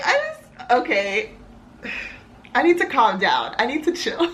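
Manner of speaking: choked-up, tearful, voice catching, fighting tears. Speaker getting emotional on camera, trying to calm down, choking up. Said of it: "I'm crying".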